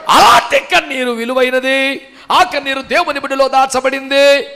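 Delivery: loud, ringing pulpit preaching; fervent Telugu sermon delivery; preaching at full force. Acted. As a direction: preach it out hard to the whole hall.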